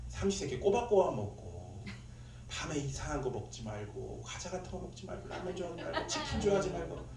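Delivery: quietly mimicked motherly nagging; 어머니의 잔소리. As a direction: list dos and don'ts in a soft nag. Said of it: "네 어머니의 잔소리를". (엄마가 잔소리하듯 작게 늘어놓기)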